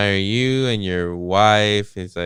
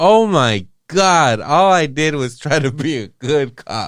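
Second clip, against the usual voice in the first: acted-out despairing, tormented scream, high and loud; 6 semitones higher, 5 dB louder than usual. Describing a miserable ending, acting out a character screaming. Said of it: "He's just screaming like".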